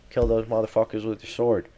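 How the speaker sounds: rough hillbilly accent yelling. Real, not acted. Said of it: "came off with, like, a hillbilly accent".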